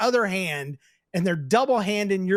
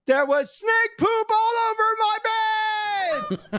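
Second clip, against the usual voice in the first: put-on excited kid exclamation; 13 semitones higher than usual. Letter's exclaimed climax.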